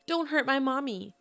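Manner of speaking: retold child's yell. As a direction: lightly cry out in a child's protest. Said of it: "Emma yells".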